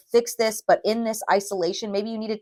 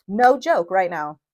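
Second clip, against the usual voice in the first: real anger; 4 dB louder than usual. Real, not acted. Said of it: "I'm serious".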